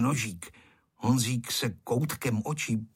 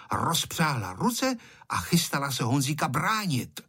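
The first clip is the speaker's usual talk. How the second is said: usual speaking voice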